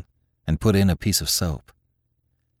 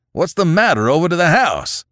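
put-on higher, louder, startled old man; alarmed old farmer; 10 semitones higher, 5 dB louder than usual. A narrator's reading. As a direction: blurt it out, rattled. Father confused by family in barn.

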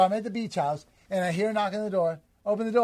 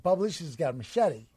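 ordinary talk, nothing marked

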